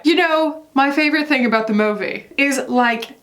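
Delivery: a hint of a British accent, drifting Australian; lightly voiced English pop star accent, half-hearted; a singer's British accent. Reading the singer's quote to viewers in a mild put-on British accent. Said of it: "I can't do his accent. ... I go Australian, but I'll try".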